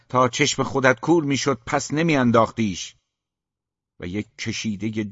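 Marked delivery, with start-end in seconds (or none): 0.1-2.9 raised, higher and louder retort; shouting back. A narrator's reading. Mother yelling back at father in a quarrel, shouting. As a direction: throw it back at him in anger. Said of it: "مادر فریاد زد".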